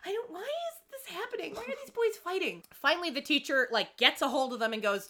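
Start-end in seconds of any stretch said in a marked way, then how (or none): 0.1-2.6 high, helpless fretting; mock dismay. Goldie as the boys fight, high mock dismay. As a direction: fret high as the baffled bystander.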